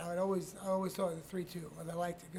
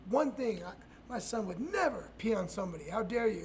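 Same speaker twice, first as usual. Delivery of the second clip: indignant dad; 3 semitones higher than usual. Retold or imitated. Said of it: "My dad's like".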